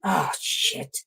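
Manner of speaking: breathy whispered curse under the breath; whispered dismay. Real, not acted. Streamer realising what she just spilled, hushed whispered curse. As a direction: whisper it as the mess sinks in.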